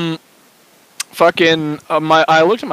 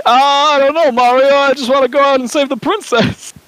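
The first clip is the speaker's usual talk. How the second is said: higher, carefree plumber voice; higher Luigi voice; 8 semitones higher than usual. Pretend. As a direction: brush it off like a cartoon hero. Mario brothers melodrama skit.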